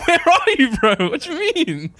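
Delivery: very high-pitched, incredulous complaint; hammed-up indignant phone rant; mock exasperation. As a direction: protest in a squeaky, worked-up voice. Acting out exasperated phone call.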